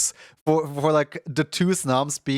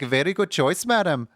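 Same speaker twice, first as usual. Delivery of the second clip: put-on Indian accent; 3 semitones higher than usual. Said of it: "I was trying to do an Indian accent".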